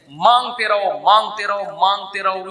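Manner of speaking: urging, stress on مانگتے each time, fading; insistent repetition. Real, not acted. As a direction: hammer مانگتے رہو then let it settle. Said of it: "repeated urging".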